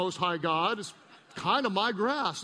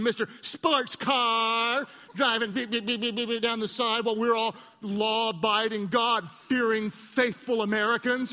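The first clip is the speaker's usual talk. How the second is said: mock road rage; 2 semitones higher than usual. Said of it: "I just went off on it".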